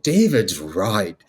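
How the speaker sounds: slow, swooping mock incantation; wizardly blessing. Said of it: "a wizardly blessing over it".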